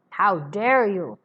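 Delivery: loud, slow, offended challenge; indignant. Acted. Spy challenging Sidney Carton, indignant slow outburst. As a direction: push back at the insult, slow and loud. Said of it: "asked him how he dared".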